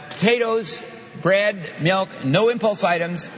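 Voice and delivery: half-hearted holler of a shopping list; mock hollering. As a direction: imitate a spouse calling a list out the door. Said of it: "she's hollering out the door".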